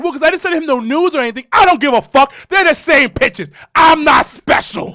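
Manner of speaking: put-on high, loud ranting girlfriend. Imitating girlfriend justifying pictures, high and loud. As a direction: rant it high and fast. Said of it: "She's like".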